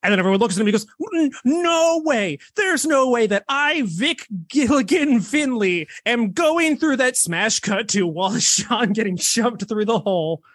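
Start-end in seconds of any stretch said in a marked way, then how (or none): 1.1-7.2 mock terrified whine; scared protest. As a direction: squeal it like a panicked little man. Wallace Shawn refusing, voiced.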